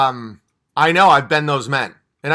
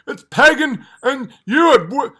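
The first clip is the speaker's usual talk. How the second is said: mocking critic; 8 semitones higher, slower than usual. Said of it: "save it when you say".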